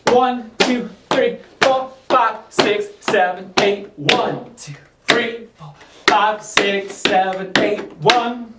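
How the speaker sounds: rhythmic count called to the beat; counting dance beats. Shown as a demonstration. Counting beats for tap drill.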